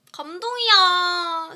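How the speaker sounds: loud, high, long-drawn gushing; touched exclamation. Real, not acted. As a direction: draw it out loudly, deeply touched. Moved by a viewer's comment.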